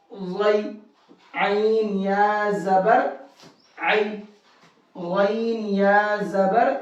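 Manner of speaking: slow, level, drawn-out letter spelling with a rise on زبر; measured Qaida drill, pausing before each blended syllable; slow practice recitation. Shown as a demonstration. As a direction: chant each spelling slowly for pupils to repeat. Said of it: "بہت آرام آرام کے ساتھ بھی پڑھنا ہے".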